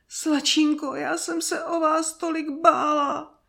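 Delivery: high, tearful woman's voice; high-pitched weepy nursemaid; sobbing nanny. A narrator's reading. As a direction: wail with relief, on the edge of sobs. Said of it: "vzlikala chůva".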